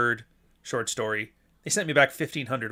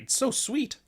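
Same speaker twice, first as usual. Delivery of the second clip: mock sweet; 10 semitones higher, 3 dB quieter, slower than usual. Mocking AI fans.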